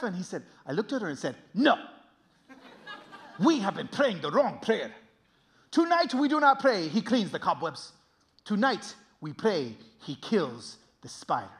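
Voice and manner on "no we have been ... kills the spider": put-on slow, weighty accented pronouncement; resolute preacher dad. Dad correcting Miss Ramirez's prayer, slow and resolute.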